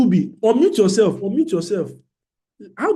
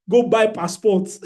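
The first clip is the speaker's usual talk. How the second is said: laughing; 2 semitones higher, slower than usual. Real, not acted. Laughing at joke about losses.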